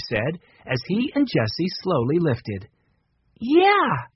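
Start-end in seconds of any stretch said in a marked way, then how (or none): 3.4-4.1 a strained, pitched-up breathy yes; lifting a heavy box, effortful; gasped. A narrator's reading. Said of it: "Jessie gasped".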